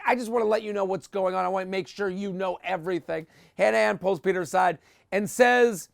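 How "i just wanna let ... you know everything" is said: fake concern. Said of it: "It's always like".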